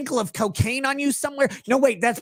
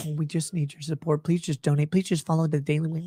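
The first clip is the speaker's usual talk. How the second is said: mock pleading; 7 semitones lower, 4 dB quieter than usual. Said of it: "and they".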